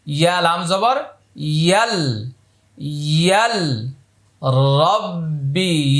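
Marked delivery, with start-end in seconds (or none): 1.3-6.0 ইয়াল drawn out slow, no alif sound; slow drawn recitation. Shown as a demonstration. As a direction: stretch ইয়াল and রব্বি slowly. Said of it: "এখানে আলিফটা উচ্চারণে আসবে না". (ধীরে টেনে তিলাওয়াত)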